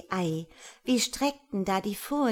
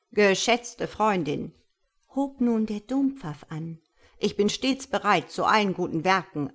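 a self-important old bird, lightly voiced, louder; lightly voiced lofty bullfinch, a bit louder; pompous bullfinch; 5 dB louder than usual. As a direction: preach caution like a smug church elder. Pompous bullfinch lectures the Christ child.

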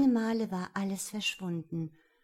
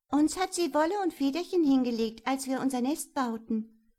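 swallows; 5 semitones higher, 5 dB louder than usual. A narrator's reading. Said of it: "sagten die Schwalben".

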